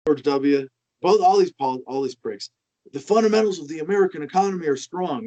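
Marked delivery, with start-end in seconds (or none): 2.9-5.3 stately campaign-speech delivery; generic American politician. Retold or imitated. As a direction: sound like a stock politician reassuring voters. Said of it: "my generic American politician impression".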